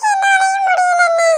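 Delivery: high, slow tired wail; exhausted whine. Acted. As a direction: whine it out, worn out from searching. Tired from searching, gives up. (சோர்ந்து போன சிணுங்கல்)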